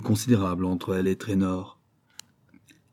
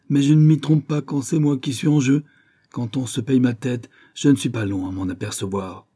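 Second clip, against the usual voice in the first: resentful outburst; 4 dB louder than usual. Acted. Gus bitterly admits his trick to Lily, loud and resentful. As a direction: spill out his wounded pride in anger. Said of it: "flot de ressentiment inarticulé".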